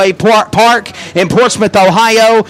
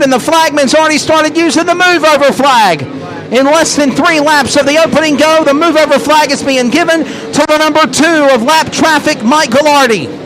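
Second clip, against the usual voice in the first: fast race-call commentary; live play-by-play. Real, not acted.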